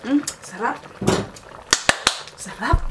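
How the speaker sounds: high, pleased mm; delighted tasting. Real, not acted. Tasting the food.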